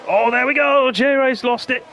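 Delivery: sudden loud, high burst of excitement; excited shout. Real, not acted. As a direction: yell it as the car crashes. Crash in race commentary.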